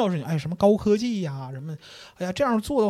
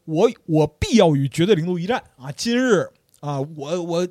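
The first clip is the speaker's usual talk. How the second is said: mock vow. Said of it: "蝎子这时候跳出圈外啊说".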